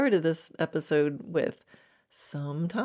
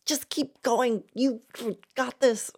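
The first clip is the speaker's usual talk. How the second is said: mock cheerleading gremlin, pitched up and drawn out; 6 semitones higher, slower than usual. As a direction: goad yourself on like a pushy little gremlin. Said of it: "all the other gremlins go".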